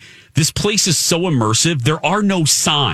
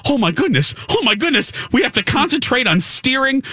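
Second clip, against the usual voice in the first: higher-pitched, flustered pilot; retold flustered excitement; 10 semitones higher, faster than usual. Telling friends about piloting the Falcon, flustered excitement. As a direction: play up an overwhelmed pilot reacting.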